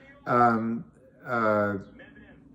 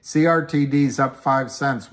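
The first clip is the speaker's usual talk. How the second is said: ordinary talk, nothing marked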